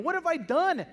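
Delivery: loud, high cry of horror; anguished cry. Acted. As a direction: wail it out in shock at yourself. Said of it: "imagine what Peter's feeling".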